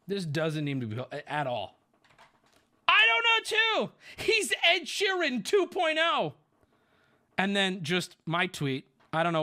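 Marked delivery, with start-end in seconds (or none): 2.9-6.3 put-on high, loud girly voice, slow at the end; teen girl voice. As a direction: ham up a young teenage girl. Reading teen girls' messages aloud.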